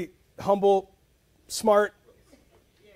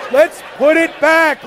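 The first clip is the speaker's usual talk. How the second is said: mock decisive; 6 semitones higher, 8 dB louder, slower than usual. Husband to wife, decisive.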